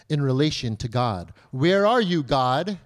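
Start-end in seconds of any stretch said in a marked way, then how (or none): 1.5-2.8 louder, searching question to God; calling out to God. Acted. Believer wondering where God is, calling out. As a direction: call out for God, pushing the first words. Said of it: "God might be wondering, "Where are you, my child?".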